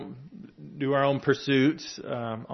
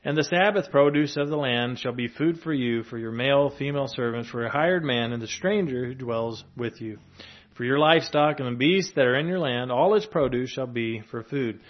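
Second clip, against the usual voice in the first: scripture reading. Acted. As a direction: declaim the law like a proclamation. Continues Leviticus reading.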